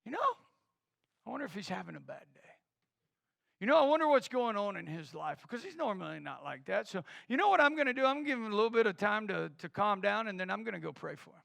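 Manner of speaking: soft, musing aloud with concern; gracious response. Acted. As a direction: think it over kindly after being snapped at. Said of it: "Do you respond with grace?".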